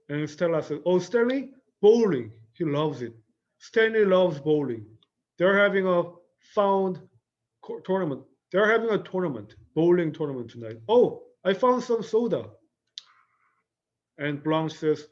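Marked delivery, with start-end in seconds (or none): 0.9-12.4 bright chatty answer. Acted. Stella chatting brightly about Stanley.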